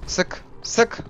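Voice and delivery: high, breathless whispered shoot shoot; tense whispered urging; urgent whisper. Real, not acted. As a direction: hiss it urgently under the breath.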